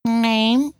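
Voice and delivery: high, drawn-out cat voice; bitten-off words. A narrator's reading. Cat curtly questioning the piglet, words bitten off. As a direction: bite each word off and spit it out. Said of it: "seemed to bite off its words and spit".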